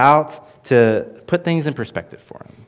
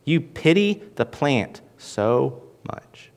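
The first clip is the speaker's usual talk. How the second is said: slow, hushed whisper; 6 dB quieter, slower than usual. Acted. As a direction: lean in and whisper it slowly. Preacher addressing Jonah intimately.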